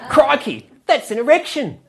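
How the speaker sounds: hammed-up crocodile hunter excitement; Steve Irwin impression. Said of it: "Steve Owen's ghost appears".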